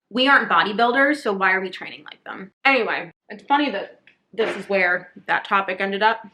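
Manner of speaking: talking through a mouthful of food; words round a bite of food, mouth full. Real, not acted. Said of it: "I'm still talking with my mouth full".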